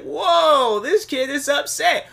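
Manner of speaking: startled. Retold or imitated. Own startled reaction retold.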